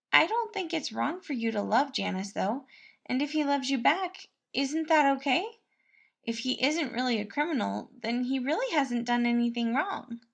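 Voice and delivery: a kindly cook fussing over the prince; cheerful cook Patton. A narrator's reading. Narrator voices Patton.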